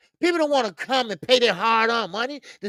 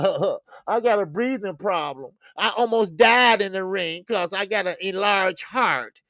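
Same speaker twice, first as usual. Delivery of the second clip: wheezy mock fighter; 2 semitones lower than usual. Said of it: "you talking about".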